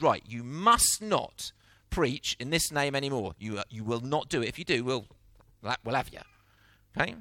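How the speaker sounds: a hint of a threatening magistrate; stern authorities. Authorities threaten arrested disciples.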